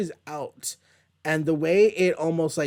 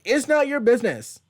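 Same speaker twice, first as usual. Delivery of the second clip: angry Cloak; 5 semitones higher than usual. Retold or imitated. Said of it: "Cloak is just like".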